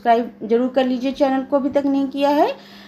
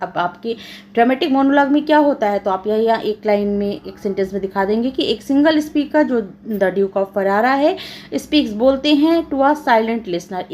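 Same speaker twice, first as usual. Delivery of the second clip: ordinary delivery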